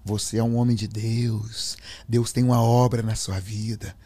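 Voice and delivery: gently imitated father speaking with faith; father's voice. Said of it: "a voz do meu pai".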